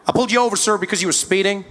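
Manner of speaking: lightly voiced formal officer; American policeman. Policeman tells driver the reason, lightly voiced officer. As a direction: explain in an American cop's tone. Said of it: "Policeman walked up to my window".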